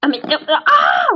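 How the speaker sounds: drawn-out exasperated outburst. Pretend. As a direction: break into a frustrated cry. Turtle exasperated, losing its words. (cri d'exaspération qui traîne)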